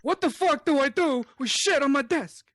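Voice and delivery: mafia don impression getting worked up; hammed-up mob boss, pitch jumping up; Godfather. Don complaining about his soiled desk, as an exasperated Godfather. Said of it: "I can do a Godfather impression".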